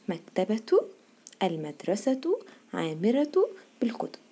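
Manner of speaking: slow model reading, "مكتبة" as maktabatu; careful linked endings in "مكتبة المدرسة عامرة"; taa when continuing. Shown as a demonstration. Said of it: "نطقناها تاء".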